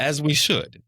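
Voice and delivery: rising excitement after stammered starts; emphatic cheer. Real, not acted. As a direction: shout the phrase in triumph. Building into an emphatic repeat.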